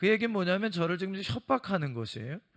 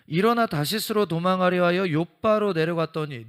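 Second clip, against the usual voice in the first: louder proclaiming Bible reading; loud scripture reading; 8 dB louder than usual. Acted. Preacher reading Jonah to the congregation, loud proclamation. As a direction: read the verse out to the whole congregation.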